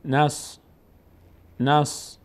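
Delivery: «نس» as one syllable closing on a heavy sad; joined sukun syllable. Shown as a demonstration. Teacher demonstrating silent sad, joined to nun. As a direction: run na straight into the s of نس. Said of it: "میچسبه به ساد".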